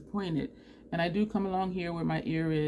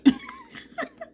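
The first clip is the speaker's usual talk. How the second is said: very high burst of giggles; squealing laughter; high-pitched laugh; 4 dB louder than usual. Real, not acted. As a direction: crack up at your own story. Laughing at the truck story.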